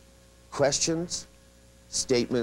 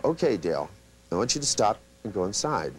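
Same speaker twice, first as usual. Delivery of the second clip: lowered command voice. Shown as a demonstration. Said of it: "you do things like you go".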